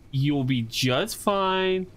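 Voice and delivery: calm it down gently; soothing. Pretend. Streamer calming the twitching squid, slow soothing.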